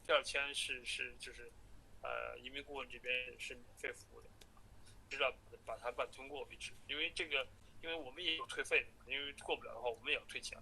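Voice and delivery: phone call. Real, not acted. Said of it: "下一个录音是我在最后跟他通话的时候".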